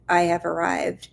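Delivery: unvoiced whispered affirmation; whispering. Shown as a demonstration. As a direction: whisper it to yourself.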